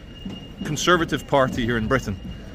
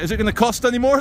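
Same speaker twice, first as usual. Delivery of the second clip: 1 money men; 8 semitones higher, faster than usual. Retold or imitated. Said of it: "money men are like".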